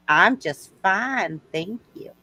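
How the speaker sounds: slow, genteel Southern belle; Southern accent. Acted. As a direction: answer politely in a Southern drawl. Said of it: "I like your Southern accent".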